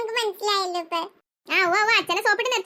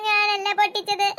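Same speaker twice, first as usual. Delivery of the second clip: slow, tearful sobbing denial; acted crying. Child to her sister, sobbing that she didn't break it. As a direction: sob through the words like a scolded kid. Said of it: "എന്തിനാ ഇപ്പൊ നിങ്ങൾ കരയണത്?".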